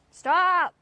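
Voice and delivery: high, loud, drawn-out shout; shouted command. Real, not acted. Owner to misbehaving Beetle, shouted command. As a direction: shout it to make the animal quit.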